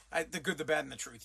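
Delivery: low mumbling imitation of the clip; mocking dumb voice. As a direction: parrot the wrong line back, low and dopey. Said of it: "You're a moron".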